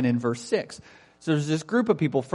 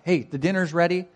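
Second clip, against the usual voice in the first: lightly acted emphatic announcement; emphatic servants; 3 semitones higher than usual. Preacher voices servants announcing the banquet, mildly emphatic. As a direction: call the guests to dinner with some insistence. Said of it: "they're a lot more emphatic".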